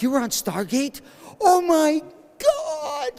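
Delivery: high, drawn-out mock fangirl scream; imitated fan freak-out. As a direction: imitate a fan going mental. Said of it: "She goes mental".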